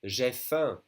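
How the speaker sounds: J'ai faim with nasal faim; French model phrase. Shown as a demonstration. Teacher models J'ai faim for learners. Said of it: "repeat after me".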